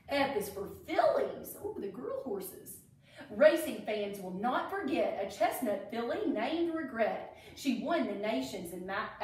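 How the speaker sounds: sing-song rhyme read aloud; reading to children. A narrator's reading. Teacher reading a Derby rhyme book to kids, sing-song. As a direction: read the verse like a storybook.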